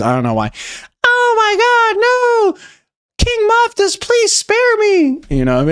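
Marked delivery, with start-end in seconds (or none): 1.0-5.2 very high, slow squealed plea; squeaky mock terror, drawn out; high-pitched voices. Streamer voices the crowd begging the king, high-pitched squeal. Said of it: "have high-pitched voices".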